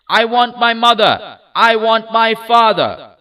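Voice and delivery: high, loud sobbing shout. A narrator's reading. Child shouts for his parents, refusing the ride, sobbing. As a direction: shout it through shrill sobs. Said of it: "shut his ears with his fingers and shouted".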